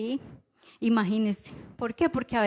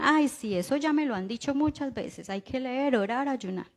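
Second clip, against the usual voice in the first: bored dismissive churchgoer; 2 semitones higher than usual. Retold or imitated. Preacher mimicking a listener tired of hearing advice, dismissive. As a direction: sigh it off like an old lecture you're tired of. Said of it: "a veces usted dirá".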